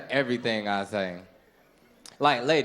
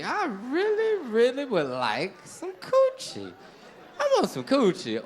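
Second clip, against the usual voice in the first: pleading inner voice; 10 semitones higher than usual. Acted. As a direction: drag out the begging. Man begging inside his head.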